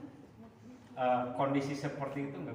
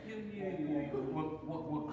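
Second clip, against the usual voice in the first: mock Indian chatter; 5 semitones higher than usual. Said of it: "Ngobrolnya kayak gitu".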